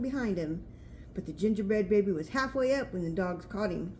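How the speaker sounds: storybook reading. A narrator's reading. Reading picture book aloud.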